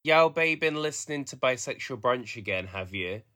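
slow, tentative Black Country demonstration; Black Country accent. Shown as a demonstration. Demonstrating to the host on request, Black Country accent. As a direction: try a Black Country lilt, feeling for the words. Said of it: "it's black country. So it would be like".

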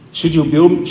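God's pointed question to David. Retold or imitated. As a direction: start God's challenge with a rise. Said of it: "and God's response".

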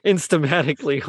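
amused echo of instamatically through a laugh; laughing repeat. Real, not acted. Host laughs back the funny word instamatically, amused. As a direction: say instamatically again, chuckling at it.

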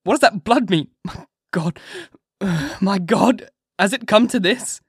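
a husband waking to horror, crying out in fear; frantic cry. A narrator's reading. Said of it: "Harker cried out".

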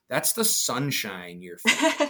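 laughing. Real, not acted. Chef answers intern, laughing.

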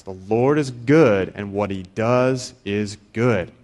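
slow, weighty reading of the verse; slow Psalm quote. Shown as a demonstration. Preacher quoting the Psalms to the congregation, slow and deliberate. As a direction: lay each word of the psalm down slowly. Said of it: "That's a direct quote from the Bible".

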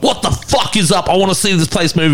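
mock aggressive frontman hype; imitated aggressive stage shout, not full volume; real aggressive. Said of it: "like, real aggressive".

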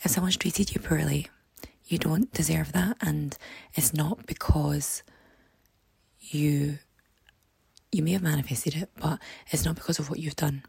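hoarse, croaky speaking voice. Real, not acted. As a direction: talk through a croaky, worn throat. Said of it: "apologies for the really croaky voice".

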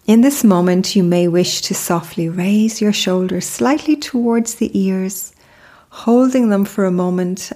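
calm, unhurried meditation guide with long pauses; measured, soothing mindfulness narration; guided meditation. Acted. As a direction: lead the listener gently into stillness, pausing between phrases.

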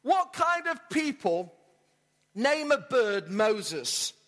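mock-baffled burglar, slow and emphatic; amused incredulity. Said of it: "the burglar laughed".

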